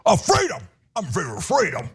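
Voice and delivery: mock Southern accent. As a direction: mimic a simpleton in an exaggerated Southern accent. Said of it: "what's up with the Southern accent".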